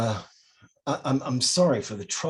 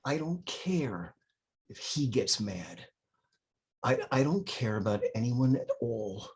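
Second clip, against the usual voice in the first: tearful; 5 dB quieter than usual. Acted. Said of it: "Father Gabriel's eyes tear up".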